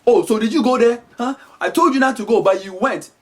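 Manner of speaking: lightly voiced African mom telling off; scolding African mother. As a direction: interrogate the child like a stern mother. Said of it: "if your mom is saying".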